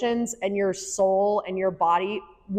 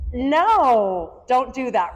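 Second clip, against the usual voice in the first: a little higher and louder, a quick hushing no; scolding adult; 3 semitones higher, 5 dB louder, much slower than usual. Retold or imitated. Adults hushing an upset child, mock scold. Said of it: "as adults is we're like".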